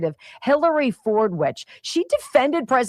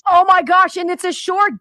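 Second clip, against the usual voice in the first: amused disbelief; 8 semitones higher, 5 dB louder than usual. Real, not acted. Host reacts to one bus joke.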